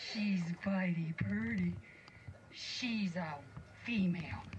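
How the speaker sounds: whispered in awe; whispering dwarf. Acted. Dwarfs whispering over the sleeping girl. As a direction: breathe it in a whisper.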